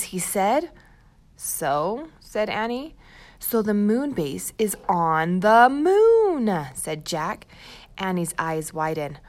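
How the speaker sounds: put-on storybook read-aloud for young kids; reading to children. Teacher reads the chapter aloud to first graders, storybook voice. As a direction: tell the story brightly to a class.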